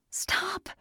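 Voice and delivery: high strained cry of "Stop"; a narrator's high desperate plea; mock scream. A narrator's reading. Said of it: "Andy screamed".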